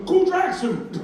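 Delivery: high, hollered praise; shouted compliment. Acted. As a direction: call it out like the loud shopper. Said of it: "he goes".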